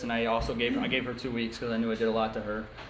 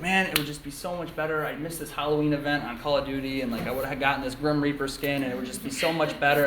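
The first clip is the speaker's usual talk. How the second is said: mildly whiny, slightly raised voice; retold complaining; 3 semitones higher than usual. Little brother over a missed Xbox event, complaining. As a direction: imitate a kid griping over a game. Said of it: "he starts complaining".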